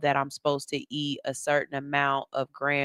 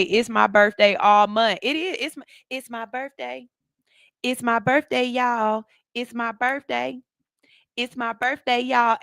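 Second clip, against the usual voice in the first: higher-pitched birthday hype; playful birthday announcement; 5 semitones higher, 3 dB louder than usual. Acted. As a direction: hype up your own birthday, repeating it playfully. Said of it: "you supposed to say".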